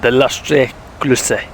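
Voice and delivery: slow mock French accent. Shown as a demonstration. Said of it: "I'm gonna say it in a French accent".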